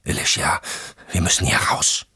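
hushed, whispered urging; urgent whisper. Acted. Sean urges Alicia to flee the house, whispering urgently. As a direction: whisper it so nobody outside hears. Urging escape while hiding from men.

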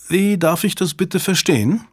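high, indignant question; indignant woman. A narrator's reading. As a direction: demand an explanation. Mitch indignant.

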